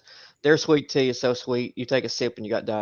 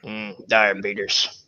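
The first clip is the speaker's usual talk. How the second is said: slow grunting mm, diabetes; Sling Blade impression; 3 semitones lower, much slower than usual. Imitating the Sling Blade guy after sweet tea, slow. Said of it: "the guy from Sling Blade".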